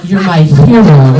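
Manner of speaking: doting mom. Retold or imitated. Mom praising her toddler, a touch doting. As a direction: gush like a proud mom. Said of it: "the mom's like".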